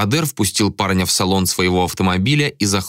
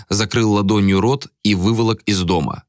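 ordinary delivery

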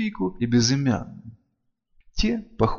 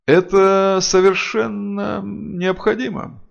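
slow, each word separated; over-precise, word by word; 9 semitones higher, 5 dB louder, slower than usual. Acted. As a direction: spell it out crisply, word by word. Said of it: "разделяя слова, преувеличенно чётко проговорил Сфайрат".

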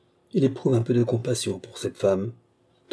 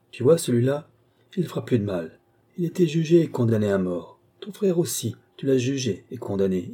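lightly voiced woman, calm then rising; matter-of-fact verdict on the dead; Marie, coldly justifying. Woman to the young man over the corpse, cold.

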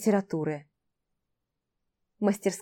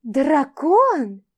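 high, loud delighted cry; light up with delight; joyful exclamation; 5 semitones higher, 6 dB louder than usual. Acted. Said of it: "радостно воскликнула Айрин".

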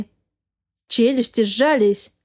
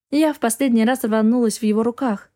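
plain reading voice

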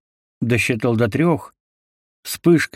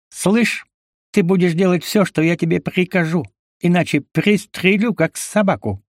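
higher, angry threat; menacing threat; 8 semitones higher than usual. A narrator's reading. ZZ threatens Lysy with gun, menacing. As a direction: threaten to shoot him like a dog.

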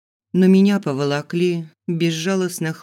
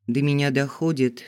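plain reading voice

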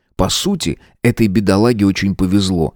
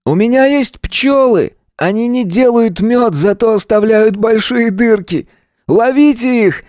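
a gunman gleefully yelling threats; shouting madman; 13 semitones higher than usual. A narrator's reading. Gunman behind door to hostages, high crazed shout. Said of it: "кричал человек из-за двери".

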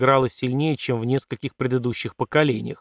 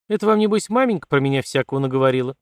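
sulky grumble; faster than usual. Acted. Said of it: "насупившись, буркнула Катерина".

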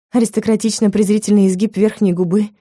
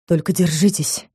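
worried; 3 dB quieter than usual. A narrator's reading. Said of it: "говорил он обеспокоенно".

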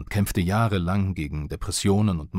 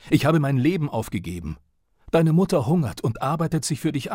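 higher and higher, a read-out father yelling himself hysterical; 4 semitones higher than usual. Retold or imitated. Father rants at his son who failed the conservatory exam, hysterical yelling. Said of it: "Sein Geschrei wurde noch lauter, hysterischer".

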